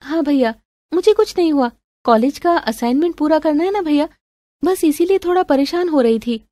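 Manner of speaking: put-on high, light young-sister voice; evasive sister. Sister blaming college assignment to brother, evasive.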